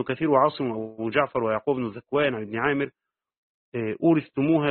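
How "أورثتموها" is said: أورثتموها with the ث pronounced fully, not merged into the ت; أورثتموها بإظهار الثاء واضحة; clear tha reading. Shown as a demonstration. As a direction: say أورثتموها letting the ث sound distinctly before تموها. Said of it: "بإظهار الثاء".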